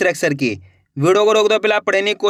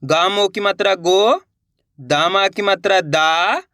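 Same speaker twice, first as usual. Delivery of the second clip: slow, careful letter-by-letter spelling; slow spelling demo; slower than usual. Shown as a demonstration. Teacher spelling aloud to pupils, slow and careful. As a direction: spell each sound out for a child. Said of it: "देखो किस तरीके से".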